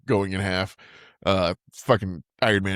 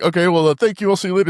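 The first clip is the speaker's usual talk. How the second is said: mock teenage whine; 10 semitones higher, 5 dB louder, faster than usual. Imitating a teen Peter.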